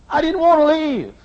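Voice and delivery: cracking high with feeling; voice breaking. Real, not acted. Pastor confessing to his church, voice breaking high. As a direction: let the voice break on it.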